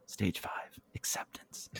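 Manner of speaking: hushed, voiceless aside; very soft stage whisper. Acted. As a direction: confide it secretly to the camera. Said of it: "Clarissa whispers in the camera".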